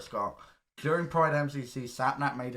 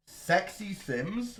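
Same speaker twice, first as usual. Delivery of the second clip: incredulous; 4 semitones higher, much slower than usual. Real, not acted. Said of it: "What's wrong with that?".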